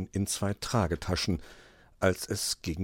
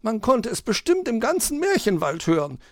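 high magpie voice, quick and teasing; cheeky retort; 5 dB louder than usual. Acted. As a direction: tease the fox back as the magpie. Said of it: "erwiderte die Elster".

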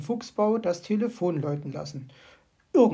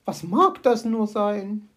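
slow, anxious bird voice; worried magpie; 5 dB louder, slower than usual. Acted. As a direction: wonder nervously.

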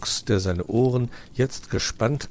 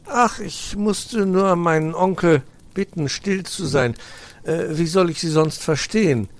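put-on high, louder hurried boy explaining; flustered young fox; 10 semitones higher, 6 dB louder than usual. Nephew explains to magpie, high boy voice. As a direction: explain yourself a bit flustered.

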